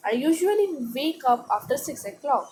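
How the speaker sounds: slow, clear read-aloud for a class. Acted. Teacher reading the paragraph to students, slow and clear. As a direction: read each word slowly to pupils. Reads text slowly.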